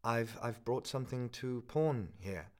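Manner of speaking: put-on slow, halting young man; nervous stammer. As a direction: stumble over it nervously.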